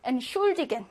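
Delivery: "entschuldigen" with weak ent and stressed schul; stress after prefix. Shown as a demonstration. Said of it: "N 강세 못 받아서".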